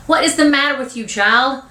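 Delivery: high-pitched scolding question; exasperated. Acted. Aunt scolding half-dressed little boy, exasperated. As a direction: demand it like a fed-up mother. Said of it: "says with an exasperated voice".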